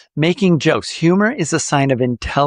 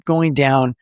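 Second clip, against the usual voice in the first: going down. Shown as a demonstration. Coach demonstrating melody in the voice, going down. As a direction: pitch dropping back down. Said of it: "add a little bit of melody into your voice".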